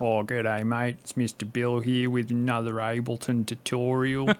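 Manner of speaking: thick Australian bogan tutorial voice. Acted. Musician mocking his old YouTube tutorials, thick bogan accent. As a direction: ham up a broad bogan Aussie accent. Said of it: "I sound like a fucking bogan".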